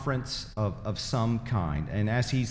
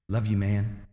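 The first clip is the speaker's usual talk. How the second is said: imitated insincere sweetness; fake smile; 3 semitones lower than usual. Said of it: "this terrible fake smile".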